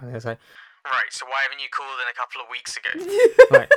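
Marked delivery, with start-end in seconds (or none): 0.8-2.9 impatient receptionist. Retold or imitated. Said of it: "more and more aggressive".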